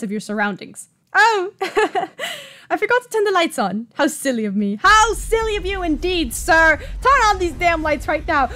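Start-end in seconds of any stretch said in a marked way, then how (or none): 1.1-3.9 high British voice with a giggle; giggle, then admit it in a lifted British accent; light laugh. Acted. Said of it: "He says with a feather light laugh". 3.9-4.8 light British self-reproach. Acted. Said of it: "He says with a feather light laugh". 4.8-8.5 mock outrage. Mocking retort to the man.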